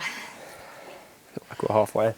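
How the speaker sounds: out of breath from the climb; panting between words; heavy breathing. Real, not acted. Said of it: "Excuse the heavy breathing".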